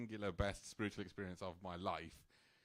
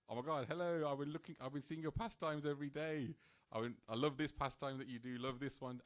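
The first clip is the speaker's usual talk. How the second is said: gushing greeting; 3 semitones higher than usual. Retold or imitated. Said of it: "I was like".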